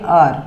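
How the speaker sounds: आर, said with a silent h, starting on the vowel; pronunciation demo. Shown as a demonstration. Teacher showing students how hour is said, silent h. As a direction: say आर without any h sound. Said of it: "हम एच को नहीं पढ़ेंगे".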